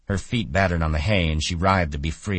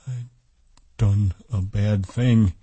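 slow, higher, stunned voice; frightened hush; 5 semitones higher, slower than usual. A narrator's reading. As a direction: draw it out in hushed dread. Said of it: "he whispered in fright".

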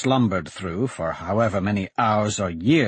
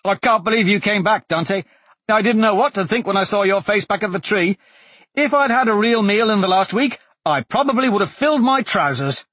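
excited; 8 semitones higher, 3 dB louder, faster than usual. Acted. Blaze overjoyed at Dante's return.

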